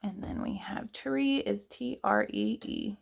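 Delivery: softly whispered spelling. Real, not acted. Teacher whispering the spelling of tree to the class, hushed. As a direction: breathe the letters out, no voice.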